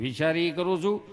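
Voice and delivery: low, stuck first sound; mock stutter in a low voice; stammering patient. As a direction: struggle to get the answer out. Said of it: "એ બેનો વાર્તાલાપ ખાલી જોયા જેવો".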